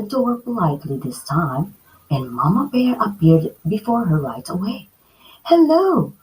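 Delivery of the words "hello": a touch of nervous, high greeting; frightened hello. Acted. Goldilocks at the bears' door, frightened hello. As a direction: greet timidly. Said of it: "Goldilocks said, frightened".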